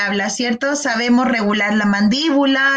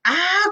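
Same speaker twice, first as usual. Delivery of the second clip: waking-up ah; 6 semitones higher than usual. Shown as a demonstration. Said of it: "como si estuviéramos recién despertando".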